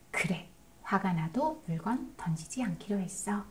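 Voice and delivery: soft, quiet, patient voice; a soothing parent offering a better choice; calm gentle guidance. Shown as a demonstration. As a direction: talk the child toward another way, softly. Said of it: "이렇게 대안을 얘기해도".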